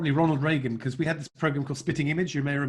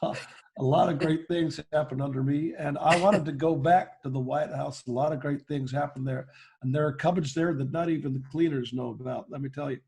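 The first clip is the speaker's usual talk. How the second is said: Bill Clinton impression. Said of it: "we had a lot of fun with Bill Clinton".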